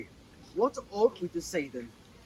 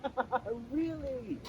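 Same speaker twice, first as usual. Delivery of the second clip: scoffing laugh; 5 semitones higher, 6 dB quieter, slower than usual. Acted. Manager scoffs at character's claim.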